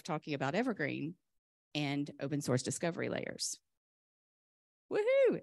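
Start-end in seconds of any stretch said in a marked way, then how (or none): 4.9-5.4 high-pitched woohoo; excited cheer. Real, not acted. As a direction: cheer it out with joy. Cheering open source at talk.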